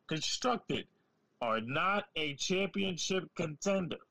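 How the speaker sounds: slow, deliberate, word by word; slow, patronizing emphasis; nice and slow. Shown as a demonstration. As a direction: spell it out slowly like to a child. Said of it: "I'm going to say it nice and slower for you".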